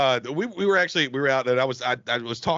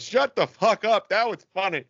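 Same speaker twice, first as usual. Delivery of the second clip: mock amused guy; 5 semitones higher than usual. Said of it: "He goes".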